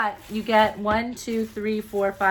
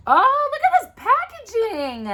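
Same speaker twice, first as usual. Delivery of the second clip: high, loud, slow squeal; thrilled awe; 6 dB louder than usual. Real, not acted. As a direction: squeal and stretch it out in delight. Marvelling at product packaging.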